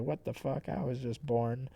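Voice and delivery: soft, deadpan robot aside; lightly voiced underwhelmed newcomer; Metal Sonichu. Newborn robot questions orders, softly deadpan. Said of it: "Metal Sonichu is like".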